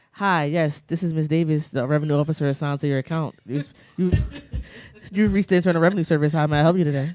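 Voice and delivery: polite formal phone voice; white voice. Pretend. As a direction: put on a proper office voice. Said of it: "Put on your white voice with us".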